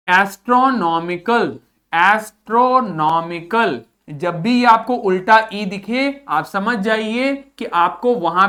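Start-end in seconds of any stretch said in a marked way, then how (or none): 0.1-3.8 एस्ट्रोनॉमिकल said clearly with falling end; model pronunciation. Shown as a demonstration. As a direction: demonstrate एस्ट्रोनॉमिकल for the class. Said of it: "इसको हम क्या पढ़ेंगे?". (साफ़ उच्चारण)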